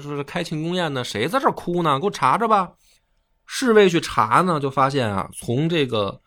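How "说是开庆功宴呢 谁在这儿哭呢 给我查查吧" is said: higher, self-satisfied then commanding; imperious An Lushan. Retold or imitated. An Lushan ordering guards to find the weeper, imperious. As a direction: lord it over the court and order a search.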